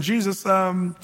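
high, pushy, laughing nudge; mother laughingly urging her son to reveal himself; eager urging mother. Retold or imitated. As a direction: egg him on to show his power. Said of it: "She's saying".

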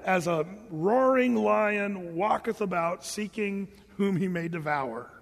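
slow, measured reading of the verse; scripture reading. Acted. Preacher reading First Peter to the congregation, slow and measured. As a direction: read it out deliberately, like Scripture. Reads a Bible verse aloud.

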